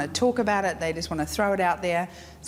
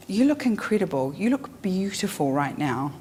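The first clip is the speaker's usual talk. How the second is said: sincere. Shown as a demonstration. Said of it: "and you mean it".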